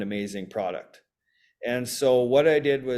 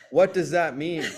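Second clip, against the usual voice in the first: light, high, mild calling voice; 5 semitones higher than usual. Recalling yelling back up to someone upstairs: retelling own yell. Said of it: "yelling back up to her".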